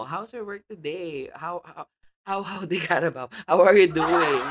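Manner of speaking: playful hammed-up British imitation; mock British dad. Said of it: "kunyari, ng daddy mo".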